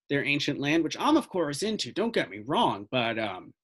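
put-on older local fellow with a Southern accent. Older fellow telling investigators of strange sightings, Southern accent. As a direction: talk like a Southern old-timer. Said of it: "I'm doing a Southern accent".

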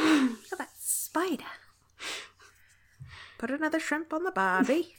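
cheeky Australian cliché voice; mock Australian. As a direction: play a cartoon Aussie. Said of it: "When we're saying oi".

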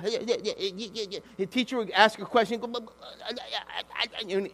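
mild mock stammer on yeah; stammering boy, lightly voiced; a hint of a stuttering classmate; imitating a stutter. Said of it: "he stuttered".

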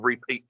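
"repeat" as ree-peat, like re-peating soil; mispronunciation. Retold or imitated. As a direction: give "repeat" a full ree at the front. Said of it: "get a bag of peat".

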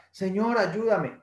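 high, slow desperate plea; pleading cry. Acted. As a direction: drag out the plea to the Lord. Drowning man begs God again. (el náufrago suplica a Dios, agudo y lento)

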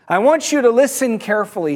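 lightly acted confident address; confident call down. Man on the bridge addresses the man below, confident call down. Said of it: "yells down with a bit of confidence".

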